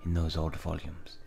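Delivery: put-on measured, hammy French accent; Villanelle. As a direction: reminisce in an amateur French accent. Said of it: "gonna give Villanelle a French accent".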